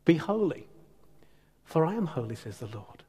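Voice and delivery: soft, fading kindly reading; gentle invitation. Shown as a demonstration. Preacher demonstrating the loving reading, gentle and soft. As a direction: offer it as a blessing. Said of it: "Whereas what it's like is this".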